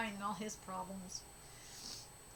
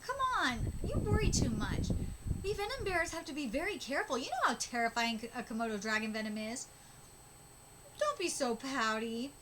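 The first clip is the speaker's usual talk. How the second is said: lively acted manga dialogue; animated story reading with swooping pitch; manga read-aloud; 2 semitones higher than usual. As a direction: read it as characters bickering fondly.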